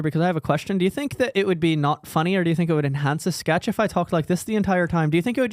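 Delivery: attempted light Irish lilt; Irish accent. Shown as a demonstration. Host asking about an accent for the sketch, Irish accent. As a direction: put on an amateur Irish accent. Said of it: "go into the Irish accent here".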